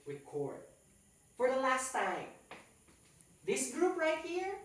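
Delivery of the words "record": "record" said rih-CORD, stress on the second syllable; verb reCORD. Shown as a demonstration. Teacher modelling the verb "record" as rih-CORD. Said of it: "we pronounce it".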